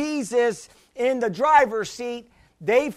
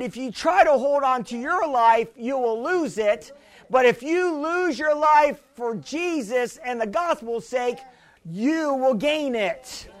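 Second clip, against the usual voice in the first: preaching at full force; 2 semitones higher than usual. Acted. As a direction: thunder it from the pulpit. Preaching scripture to congregation.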